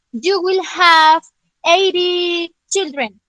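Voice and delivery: slow, drawn-out prophecy voice; mock fortune teller. Shown as a demonstration. Teacher playing a fortune teller, slow and solemn. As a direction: intone it like a seer.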